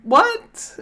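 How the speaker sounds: high-pitched acted yell; retold yell back. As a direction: yell it back as a startled question. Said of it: "And then I yell back".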